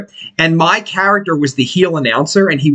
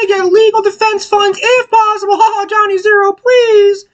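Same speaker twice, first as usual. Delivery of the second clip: mock radio host; 3 dB louder than usual. Mock radio intro call.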